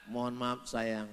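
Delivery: quiet and gentle; softly tender; soft apologetic wife. Retold or imitated. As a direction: apologise sweetly.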